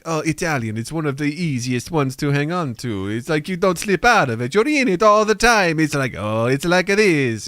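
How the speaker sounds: lightly mocked sing-song Italian accent; put-on Italian accent. Tom showing Italian is easy, mock Italian accent. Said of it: "Tom gave a good example. He's like".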